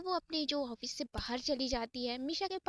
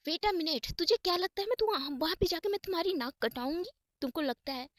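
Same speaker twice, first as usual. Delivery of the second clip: higher, louder acted protest; indignant; 4 semitones higher, 4 dB louder than usual. Isha rebuts her friend's fear of embarrassment, indignant. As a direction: challenge her with rising, indignant disbelief.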